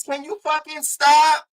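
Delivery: high, slow, fed-up plea; exasperated plea. Real, not acted. Fed up with the co-host, high slow plea. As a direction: beg hard, near the end of patience. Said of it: "whatever it is".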